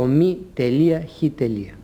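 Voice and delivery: spelled-out abbreviation, shown as wrong; wrong letter-by-letter reading. Shown as a demonstration. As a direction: read "μη τελεία χ τελεία" spelling out each letter and dot. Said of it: "Λάθος είναι να προφέρουμε".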